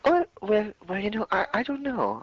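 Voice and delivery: high, put-on clueless voice; playing dumb. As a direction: ham up a dim-witted excuse. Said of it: "He plays along with a mocking voice".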